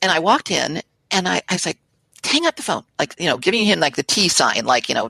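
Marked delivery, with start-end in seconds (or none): 2.2-2.8 high-pitched mock urgent interjection; retold urgent plea. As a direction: cut in urgently, voice jumping higher.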